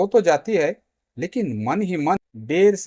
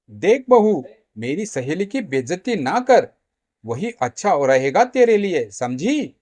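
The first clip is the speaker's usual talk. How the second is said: stern warning; 4 dB louder than usual. Acted. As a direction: warn her off as a mother-in-law. Mother-in-law warns daughter-in-law.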